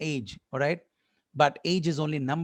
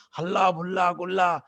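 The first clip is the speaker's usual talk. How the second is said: frantic parent searching. Retold or imitated. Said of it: "you make the whole family".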